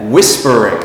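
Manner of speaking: "whispering" stressed on WHIS, then falling away; stress on first syllable. Shown as a demonstration. Teacher giving the -ing form, first-syllable stress on "whispering". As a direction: hit the front of "whispering". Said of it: "is in the front of the word".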